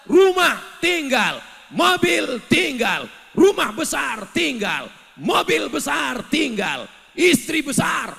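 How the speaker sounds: loud, high, slow shouted sermon; fiery preaching. Acted. Preacher warns the congregation that all is left behind, shouting.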